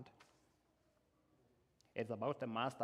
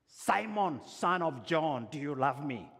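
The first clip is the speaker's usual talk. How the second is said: loud, much higher call of the name, then the question; pleading Jesus; 5 semitones higher, 8 dB louder than usual. Acted.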